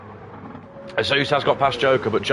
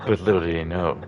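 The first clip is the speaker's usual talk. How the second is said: sultry narrator; 5 semitones lower, 3 dB quieter than usual. Retold or imitated. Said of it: "you hear them and they're like".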